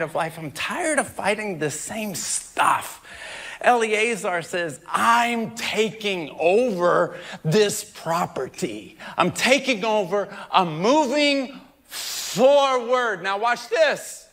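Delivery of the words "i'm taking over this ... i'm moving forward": bold declaration. Retold or imitated. Eleazar declaring victory.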